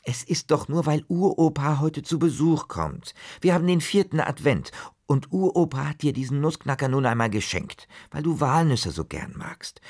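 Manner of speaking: mother calming her frightened son; soothing mother. Acted. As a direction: talk a scared child round. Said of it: "Mama versuchte, ihn zu beruhigen".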